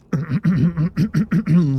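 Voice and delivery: loud clearing of the throat. Real, not acted. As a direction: clear the throat before trying. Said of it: "How low can I get?".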